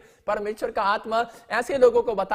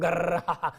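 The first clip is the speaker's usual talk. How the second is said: helicopter noise; 3 semitones lower, slower than usual. Retold or imitated. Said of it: "वो घूम रहा है आशीष लेकर".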